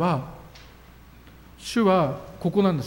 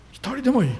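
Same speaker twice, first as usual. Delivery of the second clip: emphatic repeat; 8 semitones higher than usual. Shown as a demonstration.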